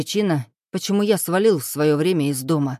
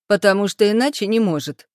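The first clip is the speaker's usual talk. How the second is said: high squeaky mocking imitation; squeaky mimicking voice; 4 semitones higher, 3 dB louder than usual. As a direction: parrot her back in a silly squeak. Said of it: "передразнил я куколку писклявым голосом".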